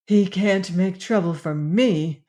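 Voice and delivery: emphasis landing on "me"; stress on last word. A narrator's reading. Sister dismissing her brother's threat, stressing "me". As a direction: lean on the final "me". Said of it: "Lorelei's emphasis on the last word".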